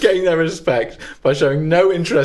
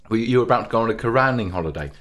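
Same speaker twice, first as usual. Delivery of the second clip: mouth full; 4 semitones lower, 3 dB quieter, much faster than usual. Real, not acted. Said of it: "I'm stuffing my face with grapes".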